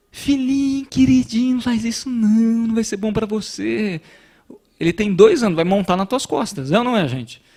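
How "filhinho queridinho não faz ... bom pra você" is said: higher, syrupy mock-gentle telling-off; sugary scolding. Parent too sweetly scolding a two-year-old, higher mock-gentle voice. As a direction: coo the scolding like a pushover parent. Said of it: "Você vai dar uma bronca no teu filho, como é que você fala?".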